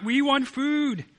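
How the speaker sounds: high, slow, loud plea of hungry people; crying out for food. Retold or imitated. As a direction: wail it out like a starving crowd. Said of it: "and they're crying out".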